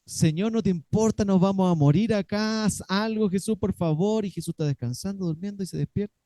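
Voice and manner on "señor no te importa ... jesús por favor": higher, louder frightened pleading; panicked plea. Acted. Disciples in the storm begging Jesus, panicked. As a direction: beg for rescue in a panic.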